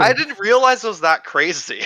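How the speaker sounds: loud, high-pitched astonishment; bowled over by the discovery; amazed. Real, not acted. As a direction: exclaim it, pitch jumping up in real surprise. Amazed at locker customization depth.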